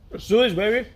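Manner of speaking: high, punchy hype voice; hyped up. Acted. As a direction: pump it up like a hype man. Hyped vlogger psyching up.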